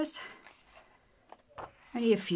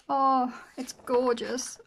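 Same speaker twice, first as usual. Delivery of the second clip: drawn-out swoon; 5 semitones higher, 3 dB louder, much slower than usual. Real, not acted. Slow swoon over the page.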